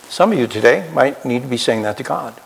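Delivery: normal talking voice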